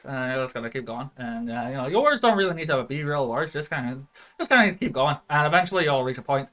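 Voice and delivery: fast, rambling Irish patter; Irish accent. Shown as a demonstration. Game master shows how to keep going, quick Irish patter. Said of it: "I'm talking Irish".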